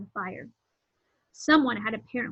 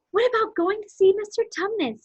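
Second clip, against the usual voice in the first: high, louder, keen proposal; eager suggestion; 10 semitones higher, 5 dB louder than usual. A narrator's reading. Lucy to her siblings, proposing a visit, eager. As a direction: pitch the idea up brightly and eagerly.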